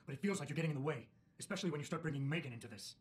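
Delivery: upset. Acted. Employee pushing back at his boss, restrained anger. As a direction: push back hard at the boss without exploding. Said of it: "I don't want us getting upset over this".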